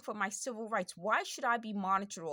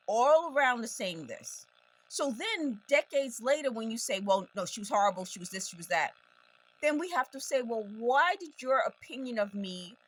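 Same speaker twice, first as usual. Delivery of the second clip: louder, higher, emphatic delivery; raised voice; 3 semitones higher, 5 dB louder than usual. Real, not acted. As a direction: push the voice as if talking over noise. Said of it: "I feel like I'm yelling over it".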